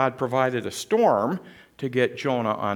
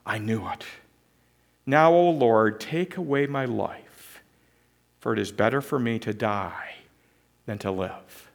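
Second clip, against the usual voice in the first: despairing Jonah; 5 semitones lower than usual. Acted. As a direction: let the words fall away in despair. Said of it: "And Jonah is saying".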